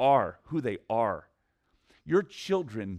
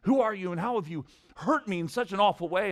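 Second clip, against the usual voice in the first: higher-pitched mock indignation; affronted imitation of the owner; imitated snide look; 5 semitones higher than usual. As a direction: act out a wounded, snide owner. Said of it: "give me a snide look".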